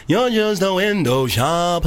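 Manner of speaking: put-on slow, teasing Nigerian accent; mock scolding in a Nigerian accent. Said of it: "in a Nigerian accent".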